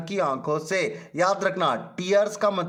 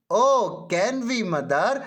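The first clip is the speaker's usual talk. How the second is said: surprised; 3 semitones higher, much slower than usual. Acted. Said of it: "अब नीना को आश्चर्य हुआ".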